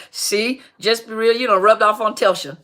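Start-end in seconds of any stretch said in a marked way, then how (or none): 1.4-2.6 laughing. Real, not acted. Teasing viewer, laughs around it.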